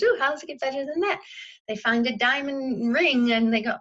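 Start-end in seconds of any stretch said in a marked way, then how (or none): 0.0-1.2 quick, bright delighted question; delighted ooh. Retold or imitated. Finder of a quarter, delighted, asking quickly for more. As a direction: savor the small win, quickly. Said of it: "And they found ten dollars".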